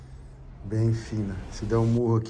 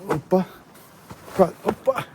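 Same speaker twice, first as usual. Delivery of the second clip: startled yelp; 7 semitones higher than usual. Real, not acted. Nearly slipping in the cave.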